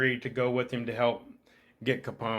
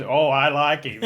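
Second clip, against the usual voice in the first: chuckling through the words, louder; laughing quote; 5 dB louder than usual. Retold or imitated. Retelling Connery's approval of the recruit, laughing. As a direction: laugh while quoting the line.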